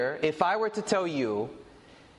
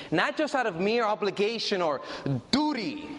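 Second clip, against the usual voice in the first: "mere" leaned on, "duty" set apart after a pause; stress on mere; 2 semitones higher than usual. Shown as a demonstration. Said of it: "emphasis on the word mere".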